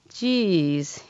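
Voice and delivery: a slow, stretched Tennessee drawl on Geez. Retold or imitated. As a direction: drawl it out like a laid-back Tennessee doctor. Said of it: "he said in a slow Tennessee drawl".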